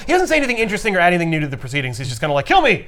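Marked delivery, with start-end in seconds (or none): 2.5-2.9 high-pitched pleading; a light, high-voiced beg; mock plea. Trapped guy begging the heroes, mock plea.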